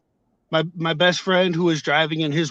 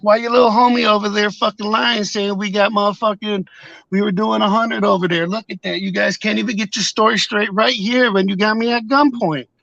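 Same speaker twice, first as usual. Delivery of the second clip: angry retort; 4 semitones higher than usual. Retold or imitated. Retelling arguing with police.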